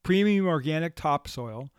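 smooth sponsored ad read. Acted. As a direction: sell it like a radio spot.

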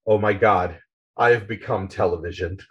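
low, downcast retold voice; dejected. Spider, head in his hands, to his television, dejected. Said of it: "is dejected and says".

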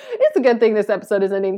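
fast, laughing through the words; rushed words through real laughter. Real, not acted. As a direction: giggle it out, a bit embarrassed. Laughing at her own tongue-tie.

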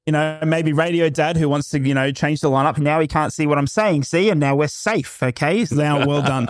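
talking through a hand; muffled behind a cupped hand; hand over mouth. Pretend. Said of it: "I'm talking through my hand".

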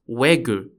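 "Wegu" said the Korean way, as WEH-goo; Korean pronunciation. Shown as a demonstration. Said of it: "it is pronounced".

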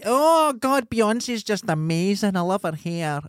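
high, drawn-out mock DJ gushing; gushing radio presenter. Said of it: "every person has a voice like that".

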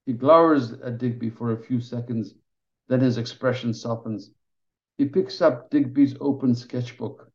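measured reading of a novel passage; story narration. A narrator's reading. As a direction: read it steadily like an audiobook. Author reads her novel aloud.

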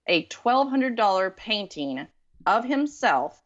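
slow, deliberate build-up; said slowly. Shown as a demonstration. Telling the host about the date, said slowly. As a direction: draw out each word for effect. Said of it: "I had to say that slowly".

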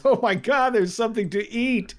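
high, excited voice of a hungry wolf; greedy wolf thought. Acted. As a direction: squeal it out like a wolf spotting food. Narrator voices greedy wolf's thought.

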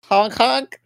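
high honking snail voice; Bubsy impression. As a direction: honk it out like a silly cartoon snail. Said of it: "Worst Bubsy impression I've ever heard".

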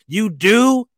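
guilt-trip like a snooty ad; pop-up icon shaming the shopper, mock snooty; snotty pop-up. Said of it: "icon will pop up like".

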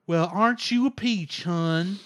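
put-on Osaka accent. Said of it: "I'm kinda doing the Osaka accent".

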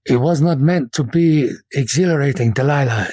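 lightly voiced old master, wry and lecturing; fencing master. Master scolding his pupil for recklessness, lightly voiced. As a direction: chide the pupil gently.

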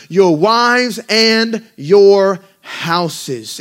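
slow, loud, drawn-out exhortation; preaching at full force. Acted. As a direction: stretch each phrase like a battle call. Preaching Nehemiah's rallying words.

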